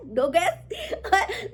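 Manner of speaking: name stretched very slowly through laughter; drawn-out laugh. Real, not acted. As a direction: let the name melt into a giggle, very slow. (हँसी में बहुत धीरे खींचा नाम)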